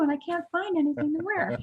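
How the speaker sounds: high, quick, whispery lady impersonation. Retold or imitated. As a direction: lament it in a put-on high whispery voice. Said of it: "like, whispery voice".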